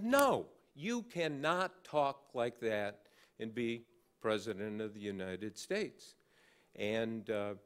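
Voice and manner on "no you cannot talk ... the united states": retold anger. She pushes back at the reporter, retold emphatic anger. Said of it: "lamp-throwing anger".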